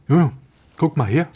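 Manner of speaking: imitated manager's call. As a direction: call over to get someone's attention. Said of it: "他就叫我".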